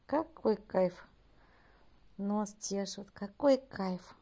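slow blissful sigh of words; blissful drawl. Real, not acted. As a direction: savor it slowly. Enjoying cat being scratched. (блаженно, растянуто)

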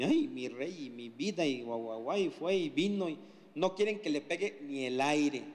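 lightly voiced cooing parent; a hint of baby talk to a firstborn; doting parent. Instructor mimicking parents spoiling their first child, mild cooing.

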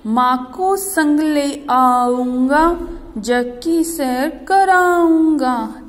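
put-on slow, lilting children's poem read; sing-song rhyme recitation. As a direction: chant the rhyme slowly for children. (बच्चों की कविता धीमे सुर में)

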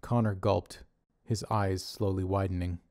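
ordinary delivery

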